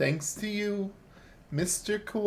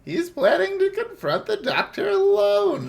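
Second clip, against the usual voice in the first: high urgent character voice; 6 dB louder than usual. Pretend. Voicing game character.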